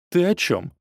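a stepmother's acid retort; caustic. Acted. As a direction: cut him down with sarcasm. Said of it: "язвительно произнесла мачеха".

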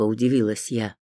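ordinary delivery

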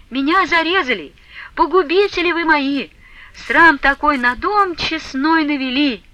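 mother wailing at her disgraced daughter; mother's lament. A narrator's reading. Mother lamenting over eloped daughter.

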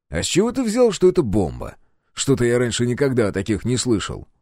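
a questioning lift at the start; lightly voiced questioning. Captain doubts the engineer, lightly voiced doubt. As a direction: ask it sceptically, only lightly voiced.

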